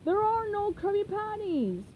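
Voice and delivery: panicking crab boss; Mr. Krabs voice. Acted. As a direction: cry it out frantically.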